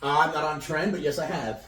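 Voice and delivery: choking on a drink; talking after choking on a drink. Real, not acted. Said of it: "You're choking on your fucking drink".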